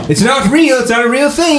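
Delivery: high laughing protest. Acted. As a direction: giggle it out high.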